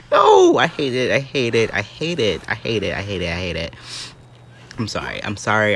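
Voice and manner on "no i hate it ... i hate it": dramatic complaining. Real, not acted. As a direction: whine it over and over, running down. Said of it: "I'm being dramatic".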